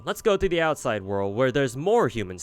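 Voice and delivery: bright, eager fairy invitation; cheery and eager. Acted. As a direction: coax them along with childlike glee.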